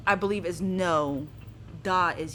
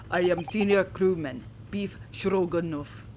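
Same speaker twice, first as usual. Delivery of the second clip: proud Russian crewman; 4 semitones lower than usual. Acted. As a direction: announce your name like a medal. Sailor introduces himself.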